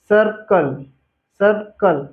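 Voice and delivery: सर्कल said as sar-kal with no vowel after r; circle pronounced. Shown as a demonstration. Teacher to students, सर्कल pronounced with no vowel after r. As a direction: say सर्कल clearly, r straight into k. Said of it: "उच्चारण से पता चल रहा है".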